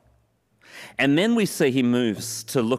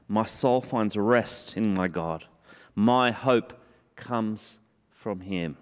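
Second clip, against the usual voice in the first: slow, low, softened reading of the verse; gentle scripture reading; 3 semitones lower, slower than usual. Acted. Pastor reading verse five to the congregation, slow and low. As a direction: read it slowly and let it settle low.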